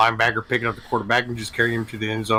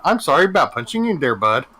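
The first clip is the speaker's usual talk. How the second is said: mock Canadian hockey player; 2 semitones higher, 3 dB louder, faster than usual. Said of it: "Just like Canadian hockey players".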